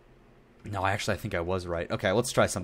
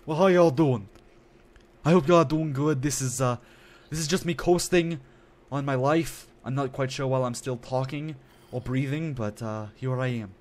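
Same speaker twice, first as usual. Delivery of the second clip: hammed-up southern country persona voice; 4 semitones higher, 4 dB louder than usual. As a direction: lay on a folksy southern accent, easygoing. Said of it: "my persona's voice".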